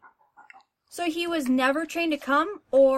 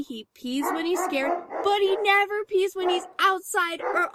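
exasperated venting. Acted. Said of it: "Calm down".

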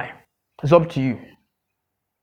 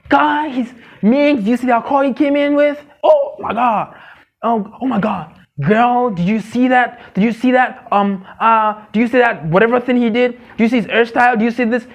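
put-on high, eager girlish chatter; excited gossip; 5 semitones higher than usual. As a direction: gush to your girlfriend about him. Gushing to a friend.

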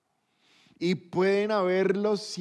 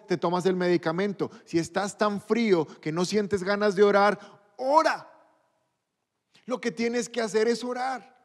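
full-force pulpit exhortation; fiery preaching. Acted. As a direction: preach it with rising fire.

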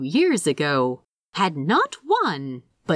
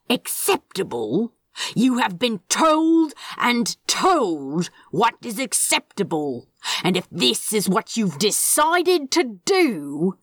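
cold, threatening lecture to a plant; menacing scolding. Acted. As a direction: scold like a stern demon. Crowley scolds his wilting plant.

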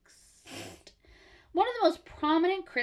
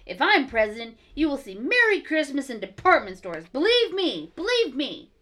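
a lightly put-on dumb voice, louder toward the end; mock a politician with a goofy accent; 4 dB louder than usual. Mocking the president's stump speech for friends in a dumb accent. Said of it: "so I'm just gonna do a dumb accent".

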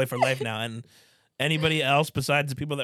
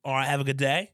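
put-on Australian accent; 3 semitones lower than usual. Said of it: "speaking in Australian accent".

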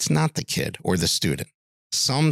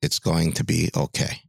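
gentle reassurance; 6 semitones lower than usual. Retold or imitated. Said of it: "looks at the boy and says".

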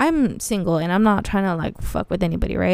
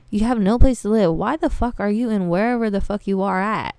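heated, louder street-style tirade; hood rant; 3 dB louder than usual. Retold or imitated. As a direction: go off on him with hood attitude. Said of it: "I'm all getting all, like, hood now".

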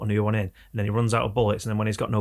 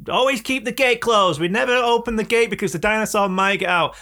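mock stern warning; 10 semitones higher, 4 dB louder than usual. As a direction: lay down the rule like a park official. Quoting Jurassic World gate rule.

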